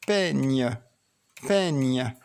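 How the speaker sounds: peigne said twice, the gn held clearly; sound drill. Shown as a demonstration. Teacher to child, clear repeated peigne. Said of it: "Où entends-tu le son ni?".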